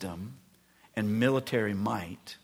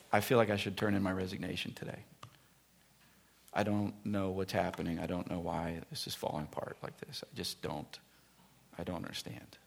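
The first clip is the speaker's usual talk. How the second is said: despairing; 5 semitones lower, 9 dB quieter than usual. Retold or imitated. Despairing pastor retold.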